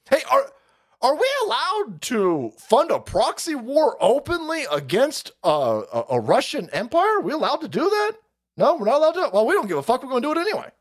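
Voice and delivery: mock administration. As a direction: play both sides smugly.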